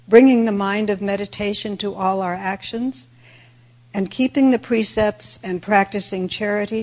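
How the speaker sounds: usual speaking voice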